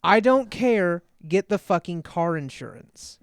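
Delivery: put-on 1 half-asleep girlfriend. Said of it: "She was like".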